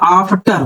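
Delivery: आफ्टर with a long open "aa" at the start; long AA vowel. Shown as a demonstration. Teacher giving an example of big आ, आफ्टर with long "aa". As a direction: draw out the first vowel of आफ्टर. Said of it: "बड़ा आ का जरा कोई बताओ".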